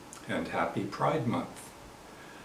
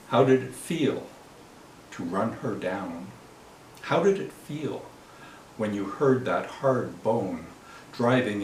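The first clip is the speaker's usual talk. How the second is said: poetry reading. Acted. Poet addresses the driver who killed a protester, accusing poetry reading. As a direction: let each phrase land, then fall away. Reads own protest poem.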